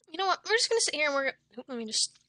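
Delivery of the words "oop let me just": spluttering tea mid-sentence; words spluttered through a spit; spit take. Real, not acted. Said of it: "That was gross".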